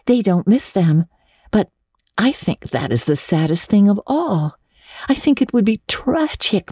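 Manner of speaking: lightly voiced eager girl; a hint of dreamy young Anne. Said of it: "said Anne".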